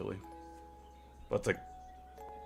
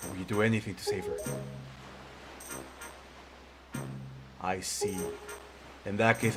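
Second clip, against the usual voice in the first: put-on wise old man voice. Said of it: "a more wise old man voice".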